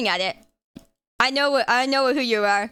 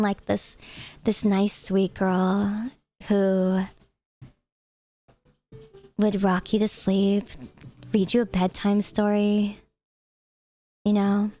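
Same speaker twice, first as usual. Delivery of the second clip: slow, sweet bedtime-story voice; classic VTuber voice; slower than usual. Shown as a demonstration. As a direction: lull them gently like a sweet VTuber. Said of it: "I could give you guys the classic VTuber voice".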